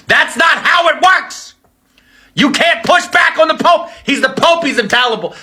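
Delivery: high, shouted scolding; exasperated shout. Acted. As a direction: yell at him like a fed-up believer. Every Catholic scolding Vance.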